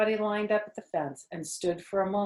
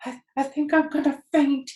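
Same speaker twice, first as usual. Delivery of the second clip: faint whisper; 7 semitones higher, 6 dB louder than usual. A narrator's reading. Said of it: "he whispered to the old sheep".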